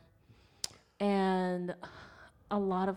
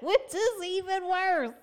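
high laughing voice; 10 semitones higher, 4 dB louder, slower than usual. Real, not acted. Both laughing about night driving.

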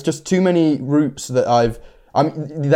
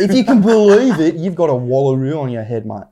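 punchy Aussie accent, settling by the end; Australian accent; 2 semitones higher, 3 dB louder than usual. Shown as a demonstration. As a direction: play it up as an excitable Australian. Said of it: "that is a good accent".

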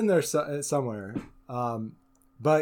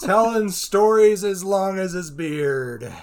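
laughing; 6 semitones higher, 9 dB louder, slower than usual. Real, not acted. Bard praise.

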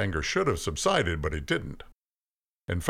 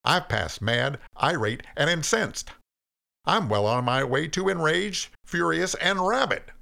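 mounting anger; 10 semitones higher, 4 dB louder than usual. A narrator's reading. Cain lists his rage to God, anger mounting. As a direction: pitch climbing higher on each word. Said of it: "began to get louder and less humble".

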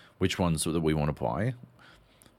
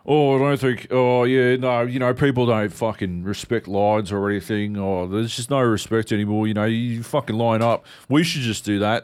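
loud, indignant muttering; grumbling complaint; 3 semitones higher, 4 dB louder than usual. Retold or imitated. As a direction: moan about line-cutters loudly. Grumbling people in line.

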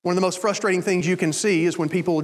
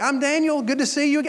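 higher-pitched hello to a patient; acted cheery greeting; 6 semitones higher than usual. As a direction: greet an old patient brightly, re-enacted. Greeting patients in retold scene.

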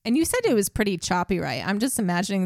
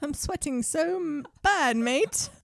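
higher, joking British voice; put-on British accent; 8 semitones higher, slower than usual. Podcaster as sweating troop talking to a mate, bad British accent. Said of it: "talk in a British accent".

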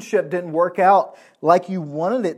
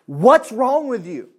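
slow, drawn-out Southern preacher, a touch higher; lightly put-on Southern American accent, louder; 6 semitones higher, 5 dB louder, slower than usual. Southern accent, preacher scolding his own soul. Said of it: "he spoke of it in a very southern way".

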